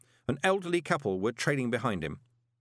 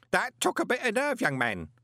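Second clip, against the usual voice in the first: roaring; 12 semitones higher than usual. A narrator's reading. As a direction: roar it, no sense of volume. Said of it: "the man roared".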